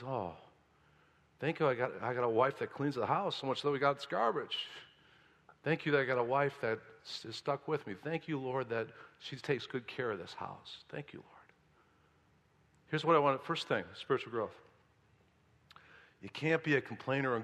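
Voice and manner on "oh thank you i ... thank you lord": softer and softer, fading to a hush; humble thanks, dropping to a whisper; grateful prayer. Pretend. Husband thanks the Lord for his wife, soft and fading. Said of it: "attitude of thanksgiving".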